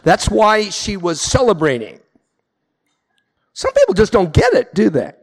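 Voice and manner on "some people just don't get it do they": incredulous punchline. Real, not acted. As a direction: toss it out, shaking your head at the absurdity. Punchline after the drunk-driver story.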